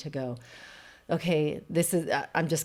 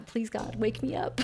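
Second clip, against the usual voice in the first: a small hushed plea to God; whispered plea; 6 semitones higher than usual. Retold or imitated. Remembering going under, a whispered prayer. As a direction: whisper a prayer, barely voiced. Retold plea before anesthesia.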